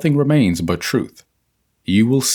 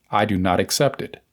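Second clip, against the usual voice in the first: calm conviction; 3 semitones lower than usual. Shown as a demonstration. Reader shows how to say the denial, calmly firm. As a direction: say it firmly without any force. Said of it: "Say it calmly, but with the same conviction".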